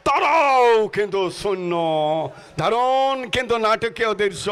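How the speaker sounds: rousing football commentary call; live play-by-play. Acted. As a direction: call the match like a stadium announcer.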